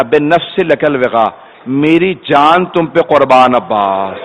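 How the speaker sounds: tender. Retold or imitated. Husain offers his life to Abbas.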